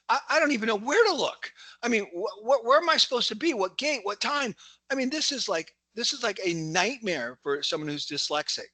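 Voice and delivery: high-pitched, overwhelmed mock panic; flustered confusion. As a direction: act out being hopelessly lost, voice pushed high. Acting out confusion over the ticket.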